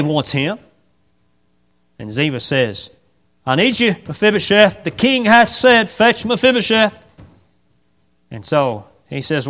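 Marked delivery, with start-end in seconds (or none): 3.5-7.1 higher, louder insisting; insistent call. Acted. Ziba insisting to the cripple, loud insistent call. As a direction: press the king's order.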